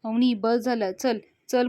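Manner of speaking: loud sharp call of her name; father cutting his daughter off, angry and loud. Acted. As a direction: bark at her to stop. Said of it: "अवनीचे वडील चिडतात आणि म्हणतात".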